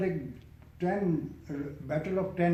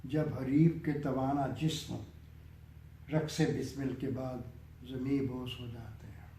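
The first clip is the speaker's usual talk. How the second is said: raised opening settling into measured verse; poem recitation. Acted. Poet reciting a nazm on death's game, measured recitation. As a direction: start lifted, then let each line come down with pauses.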